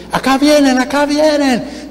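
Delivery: high, drawn-out acted call. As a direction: imitate someone alerting the whole street. Sister calls out to neighbours.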